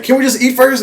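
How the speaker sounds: imitating the killer asking to eat, high and mock-casual. Killer calmly asks to eat.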